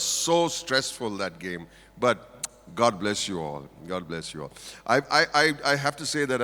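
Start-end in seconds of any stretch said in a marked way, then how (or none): 2.0-3.7 sincere blessing. Real, not acted. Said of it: "blessing after stressful game". 3.9-4.5 softer blessing. Real, not acted. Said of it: "repeated blessing".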